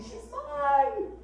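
half-shouted, possessive claim; mock scream. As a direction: cry it out like a brawling rival. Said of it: "screaming out her name, saying".

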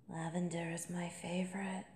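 soft intimate whisper; hushed confiding whisper. Acted. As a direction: let it out close to her ear. Intimate confession about the perfume.

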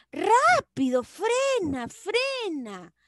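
high cried-out warning, "Rápido" loudest; urgent exclamation. Shown as a demonstration. Teacher demonstrating exclamations, urgent high cry to a driver. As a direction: call out an urgent warning to brake. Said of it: "las oraciones exclamativas".

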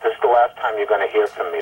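ordinary talk, nothing marked

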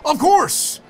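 high, loud burst of delight; light up as if you know him; excited recognition. Acted. The painter recognizing the famous Monet, thrilled.

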